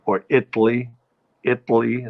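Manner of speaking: "Italy" as New Yorkers once said it; "Italy" in an old New York area accent; old New York pronunciation. Shown as a demonstration. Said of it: "as some people used to pronounce it in the New York area".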